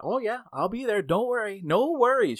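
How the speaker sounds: high, singsong mock reassurance; breezy reassurance. Regional manager brushes off an employee's worry, breezily. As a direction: wave the worry away as the boss.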